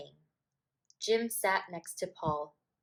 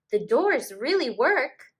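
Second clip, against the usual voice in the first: put-on louder proud little boy; excited child; 5 semitones higher, 8 dB louder than usual. A narrator's reading. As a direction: show off the toy. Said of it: "said Paul".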